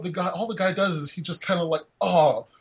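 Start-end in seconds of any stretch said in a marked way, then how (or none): 2.0-2.5 imitating a mildly put-out British guy; lightly mock British accent, understated complaint. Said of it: "Your British accent is the best".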